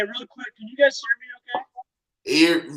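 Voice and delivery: muffled behind a covered mic; finger over the mic. Real, not acted. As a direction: speak through a hand on the mic. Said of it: "it sounds like you're covering your mic".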